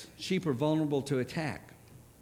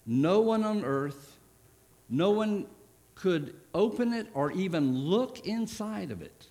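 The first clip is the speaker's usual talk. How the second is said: no one louder and higher each time; rising proclamation; 4 semitones higher, 3 dB louder than usual. Retold or imitated. Angel's cry read to the church, rising and louder. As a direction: build the no ones up. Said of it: "he goes on, he says".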